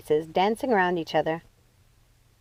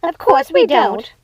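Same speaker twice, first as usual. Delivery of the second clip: slow, high, louder sing-song; sisters together; 9 semitones higher, 8 dB louder, slower than usual. Acted. Both sisters answering Lucinda, slow and high. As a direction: drag it out mockingly. Ruby and Martha said.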